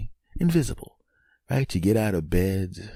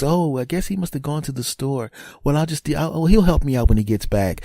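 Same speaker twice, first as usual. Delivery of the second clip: lightly voiced wife, pitched higher; a hint of the puzzled wife, higher; wife's voice; 10 semitones higher than usual. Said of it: "She looks".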